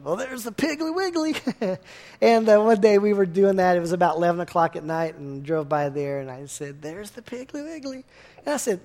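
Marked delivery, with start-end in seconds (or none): 0.0-1.4 high, playful sing-song announcement. Retold or imitated. Pastor mimicking the family's joke while driving past the store, high sing-song lilt. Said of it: "we always look over and go". 6.8-8.0 soft, deadpan try at saying Piggly Wiggly straight; straight-faced try. Retold or imitated. Pastor trying to say Piggly Wiggly without smiling, quiet and deadpan. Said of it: "say that without smiling or laughing".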